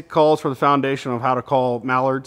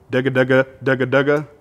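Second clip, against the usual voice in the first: rolling dugga dugga from the back; dugga feed call, back of call; 4 dB louder than usual. Shown as a demonstration. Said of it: "There's two different ways you can do this".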